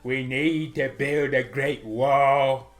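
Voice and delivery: slow, stretched-out rally delivery; hint of parody politician; lightly voiced politician. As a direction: draw out the big boasts like a stump speech. Parody rally speech about a wall.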